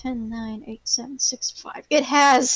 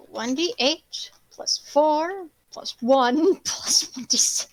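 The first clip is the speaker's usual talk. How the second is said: whispering; slower than usual. Real, not acted. GM muttering dice math.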